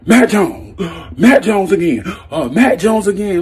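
breathless mock excitement over Mac Jones; hammed-up gushing reporter; gasping mock reporter. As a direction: gasp like an overeager reporter hyping him.

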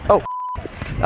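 hyped-up British mate; egging on the team in a mock London voice; jokey British accent; fake British accent. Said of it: "pretend I'm British".

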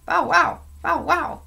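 high loud dog barks; dog barking from the front seat; excited barking. A narrator's reading. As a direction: yip like a proud little dog. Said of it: "he barked".

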